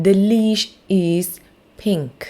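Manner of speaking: The leash is pink, word by word, very slow; slow model sentence. Shown as a demonstration. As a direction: say The leash is pink slowly for kids to repeat. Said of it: "พูดตามนะคะ".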